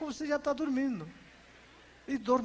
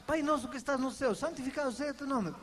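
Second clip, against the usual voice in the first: fast mechanical prayer recital; rote recitation; 3 semitones higher, faster than usual. Retold or imitated. Pastor mimics believers reciting the prayer by rote. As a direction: rattle it off without meaning it. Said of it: "isso não é orar".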